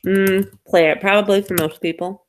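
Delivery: chewing while talking; words round a bite of pretzel; mouth full. Real, not acted. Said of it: "I have a pretzel in my mouth".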